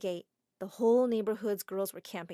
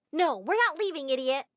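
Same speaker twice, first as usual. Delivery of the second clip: yelled; 5 semitones higher, 4 dB louder than usual. Acted. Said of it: "one of the girls yelled".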